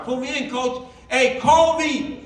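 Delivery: loud, slow eager call. Acted. Player begging coach to call him, loud call. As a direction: shout to be picked.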